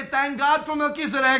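preacher's call to repeat; "Thank God for Melchizedek" called out for the congregation to repeat; call and response. Shown as a demonstration. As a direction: lead the crowd to echo it.

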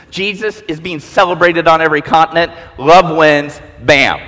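low and sure, like a bulldozer; defiant Jesus. Acted. Jesus answering the Pharisee, deep and defiant.

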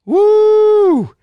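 high, loud whoop to hype the room; crowd whoop. Acted. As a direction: whoop like a hype man at a show. Hyping up a Chinese crowd.

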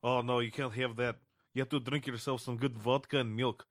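lightly voiced Russian accent; a hint of Russian accent, giving advice; Russian guy. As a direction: imitate a Russian drinker's accent. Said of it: "He's like".

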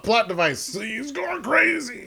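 mocking writer voice. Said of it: "being like".

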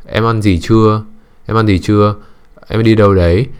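"Em ăn gì chưa?" said level like a machine, no rise or fall; flat robotic tone. Shown as a demonstration. Mocking a man whose questions to a girl sound robotic, flat. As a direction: drone each question out evenly, without feeling. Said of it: "nó như kiểu một cái máy, một cái robot".

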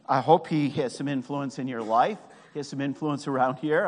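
understated sarcasm; dry, mildly sarcastic aside. Real, not acted. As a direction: say it with a light sarcastic edge. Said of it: "I say that sarcastically".

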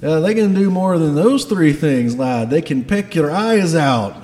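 loud, alarmed Scottish dwarf; Garm. Acted. Dwarf boss warning a lad about geese, loud Scottish accent. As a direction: warn them forcefully in a Scottish accent. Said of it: "has a Scottish accent".

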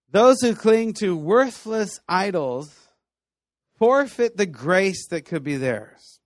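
each word weighed slowly; slow solemn quote. Real, not acted. Preacher repeating the verse for weight, slow and solemn. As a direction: let the verse land, slowly.

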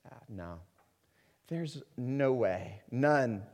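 skeptical. Retold or imitated. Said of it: "with skepticism, we say".

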